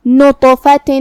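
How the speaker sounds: نطفۃ chanted with a heavy, bouncing ط; qalqala on ta. Shown as a demonstration. Teacher demonstrating qalqala on ta, bounced chant. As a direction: echo the ط of نطفۃ before moving on. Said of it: "حرف الطا کو ہلاتے ہوئے".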